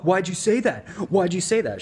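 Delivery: high, loud, heated demand; angry overreaction. Shown as a demonstration. Dating coach demoing the wrong escalating reply, high and loud. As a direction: keep firing the question back hotly. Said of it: "that's why you don't wanna be like".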